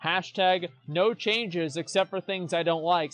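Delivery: slow, sarcastic slogan read; mock hashtag slogan. Streamer mocking no-changes players, slow sarcastic slogan. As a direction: spell out their slogan with scorn. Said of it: "so actually lots of changes".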